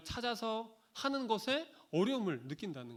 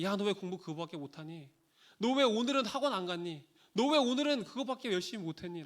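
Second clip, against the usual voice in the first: reproachful nagging. Retold or imitated. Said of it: "책망하고 질타하는".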